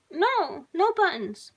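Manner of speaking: high, loud frantic scream; screaming girl. A narrator's reading. Girl screams as she breaks free of the straps, high and loud. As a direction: shriek it at him in terror. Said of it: "she screamed".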